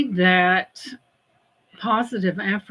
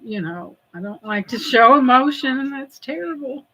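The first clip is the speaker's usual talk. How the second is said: blubbery. Real, not acted. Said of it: "I hate to be blubbery".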